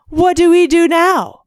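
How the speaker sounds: high, whiny mock damsel; mock helpless wife. Mocking helpless ex-wife in movie.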